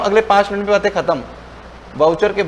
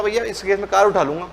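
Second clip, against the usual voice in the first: mock angry threat; 2 semitones higher than usual. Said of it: "तो मेरे को बड़ा गुस्सा आ गया".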